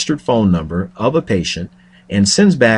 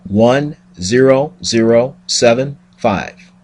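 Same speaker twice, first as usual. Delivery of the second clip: slow dialing out digits; 3 semitones higher, 3 dB louder, slower than usual. Pretend. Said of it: "Let's pretend my name is Pyler Ackerman".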